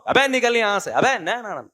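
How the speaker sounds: the rude way, set against the polite one; mock rude dismissal. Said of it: "ان کا style change نہیں ہوگا". (بدتمیزی سے نکالنے کی نقل)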